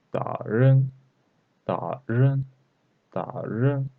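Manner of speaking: "Da" falling, "ren" rising; fourth then second tone. Shown as a demonstration. Teacher models tones for learners, fourth then second tone. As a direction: drop "Da", then lift "ren" upward. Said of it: "Fourth tone and second tone".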